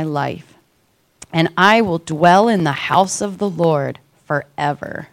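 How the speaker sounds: scripture reading. Acted. Reads Psalm 23 aloud.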